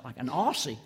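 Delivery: mild retold disbelief, rising on Aussie; acted puzzled question with an upward swoop; incredulous echo question. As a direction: query it back, mock-taken aback. Queries the surgeon's startling answer.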